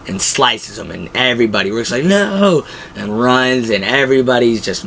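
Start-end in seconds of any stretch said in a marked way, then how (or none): 2.0-2.7 sudden high yelp of no; mock cry of no. Rick's protest retold as a high yelp.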